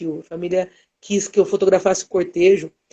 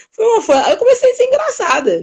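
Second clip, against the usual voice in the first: laughing; 12 semitones higher than usual. Real, not acted. Laughing while telling the story.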